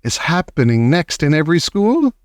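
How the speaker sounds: mild triumphant witch shout; lightly triumphant witch. Acted. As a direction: gloat over the plan. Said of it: "shouted the Grand High Witch".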